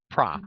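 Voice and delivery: "Pra" with an open ah vowel. Shown as a demonstration. Teacher modelling the stressed syllable in "product". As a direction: say "Pra", not "pro". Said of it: "it sounds like an ah again".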